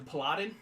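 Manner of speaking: "Paladin" said oddly on purpose; deliberate odd pronunciation. Shown as a demonstration. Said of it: "I'm gonna say it like that".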